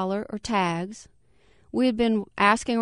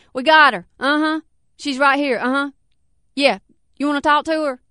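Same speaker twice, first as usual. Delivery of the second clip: eager caller; 6 semitones higher, 6 dB louder than usual. Acted. Man on phone, excited.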